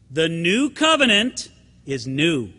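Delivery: "new" and "covenant" leaned on, slow; emphatic statement. Real, not acted. Pastor drives home his key point to the church, slow emphasis. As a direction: land each word deliberately. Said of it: "I want to emphasize it".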